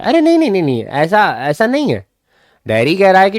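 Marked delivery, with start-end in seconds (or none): 0.0-2.1 high-pitched, hurried denial; quick protest. Acted. Mr. Lamb interrupts Derry to disagree, high-pitched protest.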